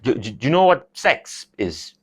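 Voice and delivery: put-on halting, stammered Kerry-accented repeat; dad's Kerry accent. Dad repeating the question to son, hesitant Kerry accent. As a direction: mumble it like an awkward Kerry dad. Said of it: "He has a really thick, heavy Kerry accent".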